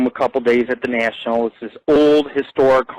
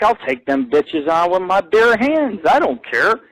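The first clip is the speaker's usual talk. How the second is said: higher, slow swaggering brag; tough-guy boast; 5 semitones higher, slower than usual. Retold or imitated. Telling his scared friend he'll fight bobcats, in a swaggering brag. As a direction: puff up and dare the bobcats.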